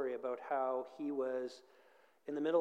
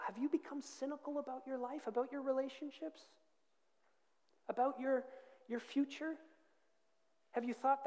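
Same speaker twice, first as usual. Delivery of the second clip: raised, pressing preacher's pitch; impassioned preaching; 7 semitones higher, 3 dB louder than usual. Acted. Preacher challenging a congregation grown cynical, impassioned. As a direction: preach with insistent force. Preaching, voicing despairing inner thoughts.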